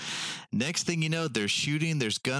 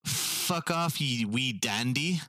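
gruff Scottish lord; 3 semitones higher, slower than usual. Retold or imitated. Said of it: "their response was".

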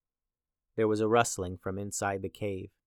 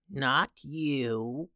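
put-on creaking old witch voice; creaky voice. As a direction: let the words creak out. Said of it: "her voice creaked".

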